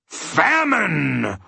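high, drawn-out anguished cry; anguished roar. A narrator's reading. Humbug realizing what he has eaten, anguished roar. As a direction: wail it out in anguish. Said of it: "roared the anguished humbug".

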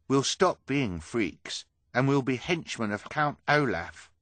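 storybook freak full of hope; excited dreaming. Acted. Hugo dreams of new life.

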